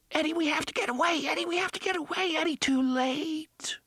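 high, fast panicked pleading; terrified. A narrator's reading. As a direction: blurt it out in terror. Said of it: "Her terror turned the words into an unpunctuated auditory smear".

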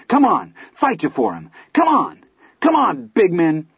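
wild taunting shout. Acted. Teddy taunts the bullies.

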